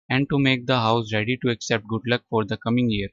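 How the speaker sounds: very slow, word by word; slow reading. Shown as a demonstration. Teacher reads the passage slowly to class. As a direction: read it out slowly for students.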